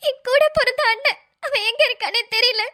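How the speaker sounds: weeping with a broken laugh; laugh-cry through the words; tearful. Acted. Bride weeping to Aadhi about her lost brother.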